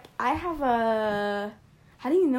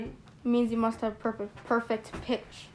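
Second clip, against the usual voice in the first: slightly slurred through braces; fumbling the words round braces; 4 dB quieter than usual. Real, not acted. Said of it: "God, I can't talk with braces".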